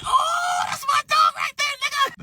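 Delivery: very high, slow, shouted cheer; hype shout. Retold or imitated. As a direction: cheer her on at the top of your lungs. Cheering sister landing a hit.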